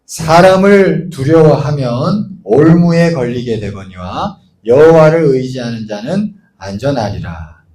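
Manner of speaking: slow, solemn verse recitation; scripture reading. Acted. Preacher reciting Proverbs to the congregation, slow and solemn. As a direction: read the verse slowly, weighty.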